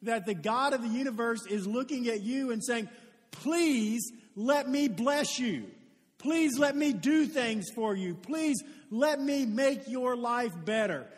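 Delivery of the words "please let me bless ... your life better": pleading God. Acted. God pleading, voiced by preacher.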